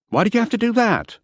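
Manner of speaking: high, dismayed protest; a man horrified his past was revealed; appalled cry. A narrator's reading. Simpson to Goutard about his record, dismayed high protest. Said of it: "I was appalled".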